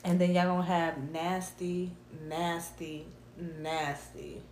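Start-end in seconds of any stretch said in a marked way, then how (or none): 1.1-4.4 each "nasty" leaned on, the last two softer and fading; sly repeated "nasty" that drops away; emphasis on nasty. Shown as a demonstration. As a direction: stress "nasty" every time, trailing off. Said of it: "I need to put the emphasis on nasty".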